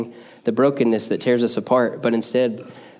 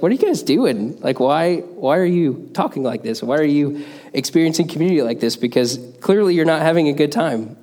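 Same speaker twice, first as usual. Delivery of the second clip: incredulous questioning; 4 semitones higher than usual. Retold or imitated. Pastor confronts bickering eighth graders.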